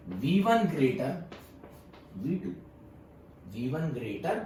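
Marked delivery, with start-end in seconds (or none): 0.1-2.5 each word spelled out slowly for notes; slow dictation. Shown as a demonstration. Teacher dictating to students, slow and deliberate. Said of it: "तो मैं क्या लिखूंगा यहाँ".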